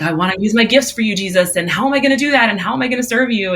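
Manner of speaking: mock overeager volunteer; eager plea. Acting own anxious plea to Jesus.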